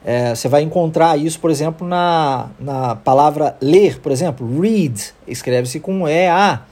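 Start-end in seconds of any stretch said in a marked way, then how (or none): 4.6-5.1 "read" with a long ee vowel; isolated "read", clear English ee. Shown as a demonstration. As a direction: model "read" with EA sounding like ee. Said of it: "o E A sendo pronunciado com som de I".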